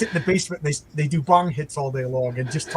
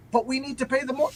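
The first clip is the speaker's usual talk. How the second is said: sitcom wife; 8 semitones higher, 3 dB quieter than usual. Retold or imitated. Wife cut off.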